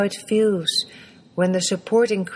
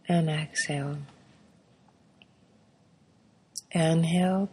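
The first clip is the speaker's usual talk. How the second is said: counting breaths; 4 dB quieter than usual. Shown as a demonstration. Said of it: "count to five with every breath".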